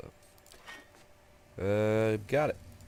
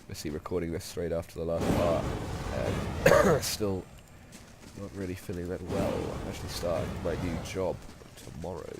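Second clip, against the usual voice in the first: nasal voice from a cold; blocked nose; 2 semitones lower than usual. Real, not acted. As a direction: talk with a stuffed-up nose. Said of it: "nasally voice".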